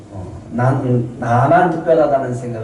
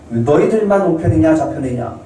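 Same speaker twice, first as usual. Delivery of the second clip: indignant; 5 semitones higher than usual. Retold or imitated. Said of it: "제자들이 막 화를 내요".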